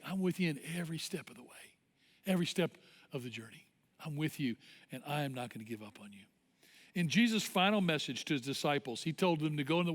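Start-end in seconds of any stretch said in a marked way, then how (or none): 0.1-6.2 soft promise, sinking lower; quiet reassurance. Acted. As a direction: reassure gently, getting quieter to the end. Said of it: "He's like".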